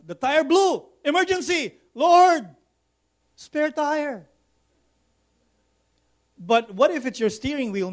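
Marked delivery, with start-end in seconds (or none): 0.0-4.3 higher, rushed mock panic calling on the Lord; hammed-up panicked plea, peaking on Lord; panicked mock prayer. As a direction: play the frantic driver in an emergency. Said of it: "Some people go".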